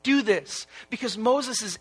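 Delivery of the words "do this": slow, higher-pitched plea; acted pleading, drawn out; begging. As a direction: beg God slowly, as if playing Moses. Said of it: "Moses is begging God".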